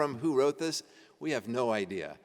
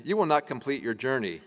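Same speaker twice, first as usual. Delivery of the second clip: laughing. Real, not acted. Reading an absurd curse, laughing.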